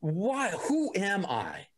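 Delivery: a confused newborn mind asking where it is, slowly and high; bewildered. Retold or imitated. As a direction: ask like waking up with no memory at all.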